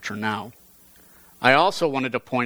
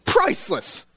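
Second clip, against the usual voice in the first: a sharp, raised cry of delight; exclaiming; 8 semitones higher than usual. A narrator's reading. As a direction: toss it out like snobbish praise. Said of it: "exclaimed one half of the clevers".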